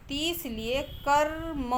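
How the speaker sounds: कर्म said slowly, ra clearly joined to ma; careful pronunciation. Shown as a demonstration. Teacher demonstrating कर्म to students, slowly. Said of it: "देखिए ऐसे उच्चारण किया आपने".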